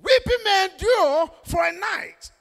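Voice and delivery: "may" pressed with a lifted pitch; stress on may. Shown as a demonstration. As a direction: put the weight on "may". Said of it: "The emphasis is the word may".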